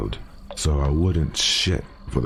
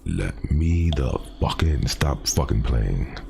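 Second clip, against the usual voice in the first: slow, halting, off-kilter creature voice; halting, weirdly toned voice; 3 semitones lower, slower than usual. Retold or imitated. Narrator imitating the creature at the door, halting and slow. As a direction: mimic a thing faking human speech, lower and slower. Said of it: "halting, weirdly toned voice".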